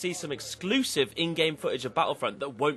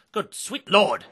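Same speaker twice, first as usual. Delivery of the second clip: loud, higher "good sweet lord"; excited exclamation; 4 semitones higher, 5 dB louder, slower than usual. Real, not acted. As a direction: burst out in delight. Excited reaction to map count.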